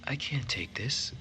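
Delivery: gently turning down a gift; reluctant girl. Acted. Rosa refusing the locket from Gillamy, slow and hesitant.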